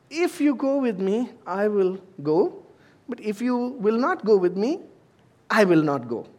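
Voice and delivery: high, hesitant conditions, rising at each pause; timid sissy. Acted. Barak answers Deborah's call, weak in faith, timid and high. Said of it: "being kind of a, a sissy or a pansy".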